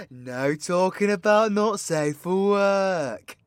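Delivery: mock-scandalised shout. Mock outrage rule.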